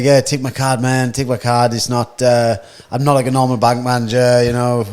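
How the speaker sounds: imitating his loud, insistent patter; mildly hammed-up loud talker; loud bank manager. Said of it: "he's just loud as fuck".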